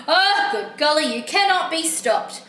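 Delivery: mildly acted dismay turning to begging; exasperated book character. Book character begging an unstoppable reader, exasperated. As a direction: give in to a stretched-out please.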